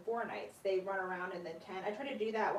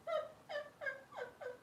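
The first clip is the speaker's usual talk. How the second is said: high, soft pathetic little whine; imitated whine; 7 dB quieter than usual. Owner imitating her glider's pathetic whine. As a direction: mimic the glider's tiny whimper. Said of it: "She kinda goes".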